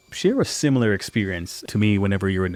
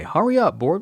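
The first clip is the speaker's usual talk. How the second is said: shouting over table saw; 9 semitones higher than usual. Real, not acted.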